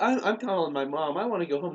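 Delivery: mild mock-whiny protest; a hint of a scared kid; retold upset kid.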